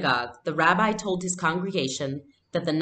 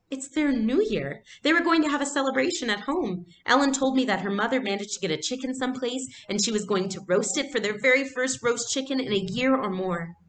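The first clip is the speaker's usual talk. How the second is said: put-on much higher pleading girl's voice; dismayed girl; 8 semitones higher than usual. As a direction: protest anxiously to Mama. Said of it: "Anne-Marie said in dismay".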